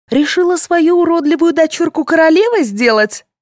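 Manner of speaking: high, sneering, furious; venomous accusation. Acted. Tatyana accusing the other mother, venomous and furious. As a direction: hurl the accusation at her. Tatyana keeps raging at rival.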